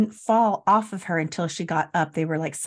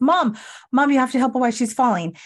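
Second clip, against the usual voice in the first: higher, hurried imitation of a call to mom; retold alarm, calling mom over; mildly urgent plea; urgent call for help; 4 semitones higher, 4 dB louder, faster than usual. Acts Amanda calling for help.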